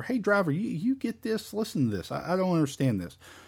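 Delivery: high-pitched, pleading voice. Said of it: "asking the driver".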